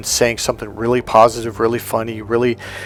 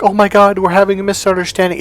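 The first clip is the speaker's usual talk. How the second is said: higher, louder, quick dramatic alarm; mock panic; 8 semitones higher, 4 dB louder, faster than usual. Mocking people who panic over misunderstandings, high and quick. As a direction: ham up the overreaction. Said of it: "I don't mean like".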